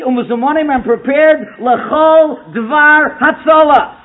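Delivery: slow, drawn-out Hebrew with English translation; reading out scripture. Retold or imitated. Rebbe reads Sha'arei Tshuva to Herschel's group, slow emphatic recitation. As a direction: recite the text emphatically, stretching the Hebrew phrases. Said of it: "And he reads it to them".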